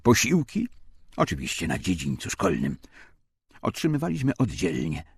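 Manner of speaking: ordinary delivery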